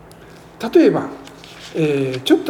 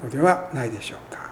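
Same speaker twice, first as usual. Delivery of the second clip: whispered aside; 4 semitones lower, 8 dB quieter, faster than usual. Real, not acted. Preacher questions listeners.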